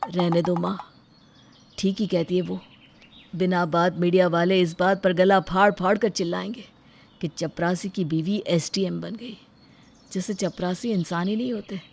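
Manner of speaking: subdued, dejected voice; hurt resignation. Acted. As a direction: give in quietly, wounded. Hurt husband gives in to insult. (दबी, बुझी हुई आवाज़ में)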